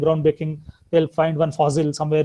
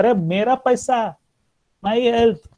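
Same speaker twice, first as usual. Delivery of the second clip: a higher, offhand mock friend brushing it off; dismissive friend; 6 semitones higher than usual. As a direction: toss it away like a careless buddy. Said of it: "they'll talk like this".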